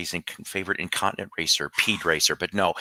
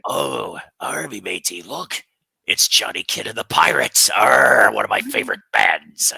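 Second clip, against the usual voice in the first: lightly growled pirate with a loud "arr"; hammed-up pirate delivery; 3 dB louder than usual. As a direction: speak as a pleased old sea dog. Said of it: "You sound like the pirate from SpongeBob".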